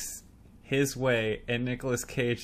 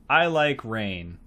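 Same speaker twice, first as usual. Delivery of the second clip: slow, imitating dull small talk; boring; 4 dB louder, slower than usual. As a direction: recite an exchange with no spark, drawn out. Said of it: "the most boring chemistry building line".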